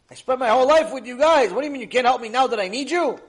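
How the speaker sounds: loud hurt pleading; desperate plea. Acted. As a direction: cry out in disbelief at abandoned friends. Man pleads with friends.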